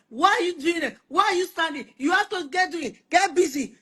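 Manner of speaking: fast, high, scolding bark; nagging boss. Retold or imitated. Husband nagging at home like a site boss, fast high scolding. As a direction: hurry them along like a foreman.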